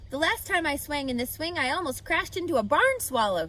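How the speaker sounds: yelling. Acted. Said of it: "he yelled".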